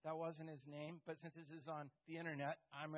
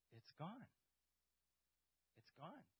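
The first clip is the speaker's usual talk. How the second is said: much softer, subdued repeat; hushed amazement; 10 dB quieter than usual. Retold or imitated. Coworker Moose admitting his headache is gone, much softer. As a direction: let it fall away softly twice.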